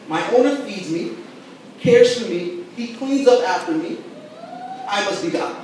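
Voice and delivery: lightly voiced smug cat; a hint of a self-satisfied cat; cat's point of view. Pastor voicing a cat's theology for the church, mildly smug. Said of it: "A cat says".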